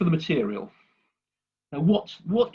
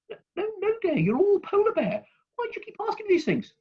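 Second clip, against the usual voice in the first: high, fussing mother voice; a mother losing patience with endless questions; high, weary mummy; exasperated mother bear. Acted.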